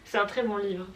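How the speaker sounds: distant, faint voice off mic; speaking from across the room; far from mic. Real, not acted. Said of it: "comme elle est un peu loin du micro".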